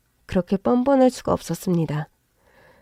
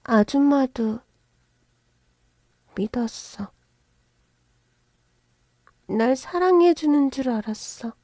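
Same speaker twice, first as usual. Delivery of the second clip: tearful regret; 4 semitones higher than usual. Acted. Daughter grieving betrayal.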